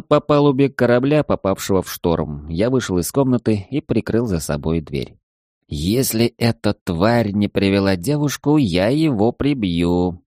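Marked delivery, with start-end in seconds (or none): 5.7-10.2 put-on slow, weary, drunken breath; heavy exhale. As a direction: sigh the words out slowly. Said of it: "Тяжело выдохнул я".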